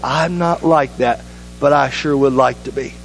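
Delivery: humble admission. Shown as a demonstration. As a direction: say it simply and humbly. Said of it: "you say it just like that".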